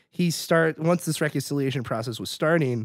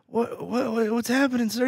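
mock bewilderment; 6 semitones higher, 3 dB quieter than usual. Acted confused hero waking up.

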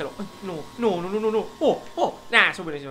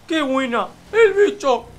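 short, high, loud yell of "¡El bicho!"; celebratory shout; 7 semitones higher, 11 dB louder, slower than usual. Acted. Streamer celebrating a great move to his viewers, high loud cheer. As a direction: bark "¡El bicho!" fast and high like a goal cheer.

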